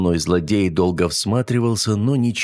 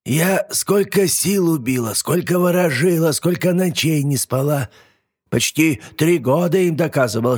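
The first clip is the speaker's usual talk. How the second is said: put-on old witch complaining; 7 semitones higher than usual. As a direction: lament like a tired witch. Yaga complains.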